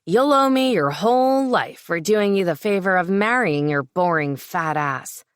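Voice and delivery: hateful sneer. Acted. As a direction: spit the insult at her with contempt. Lewis sneers at his ex-wife.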